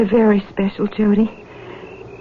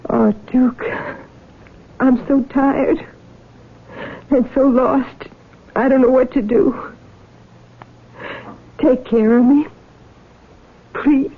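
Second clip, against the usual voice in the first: weary pleading; 3 semitones higher, slower than usual. Acted. Jenny begging Duke to look after her, weary and pleading. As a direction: beg him to take care of her, worn out.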